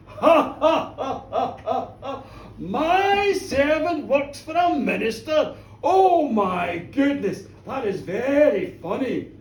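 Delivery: big, loud villain's laugh into slow words; hammed-up, gloating hilarity; mocking laughter. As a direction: boom with amusement at the minister. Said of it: "the tall figure laughed again".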